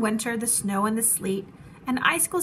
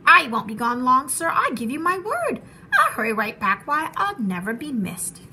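pleading; 4 dB louder than usual. Acted. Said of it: "begged the bird".

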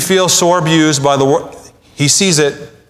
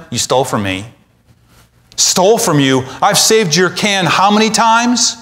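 a touch of indignant retort; mild mock back-and-forth accusation; 4 semitones higher than usual. Laban and Jacob trading retorts, lightly voiced. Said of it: "the kind of retort that Laban gives".

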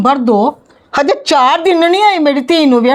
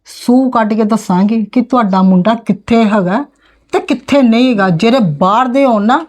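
lower, cold warning; menacing threat; 3 semitones lower than usual. Acted. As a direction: drop the voice and threaten. Aunt threatens about the son. (ਨੀਵੀਂ ਸੁਰ ਵਿੱਚ ਧਮਕੀ)

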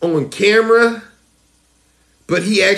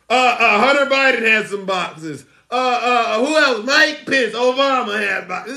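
mock flustered whining, pitched up a bit; Trump; 4 semitones higher than usual. Host mimicking Trump blaming others for boxes, mock flustered. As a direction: stammer out excuses as a mocking imitation. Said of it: "This is what Trump's talking about".

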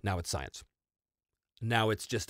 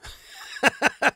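laugh; 5 dB louder than usual. Real, not acted. Laughing at Carlos question.

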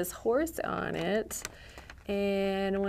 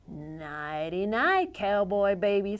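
tender goodnight. Acted. Bedtime goodnight.

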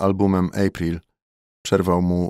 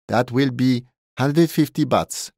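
cheerful, high-pitched price quote; name the price brightly, stretching it out; loud and joyful; 6 semitones higher, 4 dB louder, slower than usual. A narrator's reading. Thai barman charging his Polish customer, loud and joyful. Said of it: "Taj znowu był głośny i radosny".

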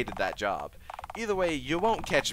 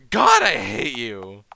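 exasperated yell; 4 semitones lower, 8 dB louder, slower than usual. Acted. Exasperated at the devouring.

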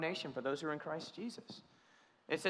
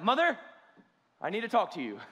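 teasing formal Mother; 4 semitones higher, 4 dB louder than usual. Retold or imitated. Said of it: "So I'll be like".

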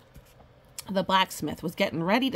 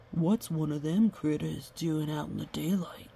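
hushed creepy whisper; 3 semitones lower, 4 dB quieter than usual. Acted. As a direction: breathe it out unvoiced. Character speaks in whisper.

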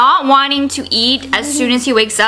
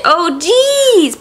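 put-on high coaxing "Oh, jeez" for child; toddler voice; 5 semitones higher than usual. Shown as a demonstration. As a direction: prompt the toddler to repeat. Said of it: "You say".

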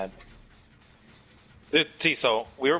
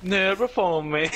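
dark lord; 4 semitones higher, 3 dB louder, slower than usual. Pretend. Mock villain command, laughing.

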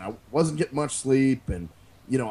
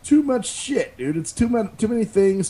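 emphatic complaint; 9 semitones higher, 5 dB louder than usual. Real, not acted. Arguing about pizza toppings.

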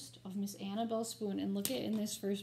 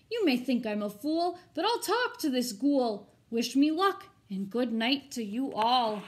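put-on brave boy; 6 dB louder than usual. Herbert bids the hall farewell.

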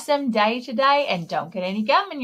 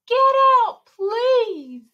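much higher insistent order; firm command; 13 semitones higher, slower than usual. Acted. Firemen ordering the gum out, firm. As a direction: tell the gum to get out.

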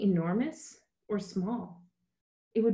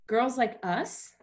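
flirty; 5 semitones higher, slower than usual. Acted. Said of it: "her practiced flirt coming out".

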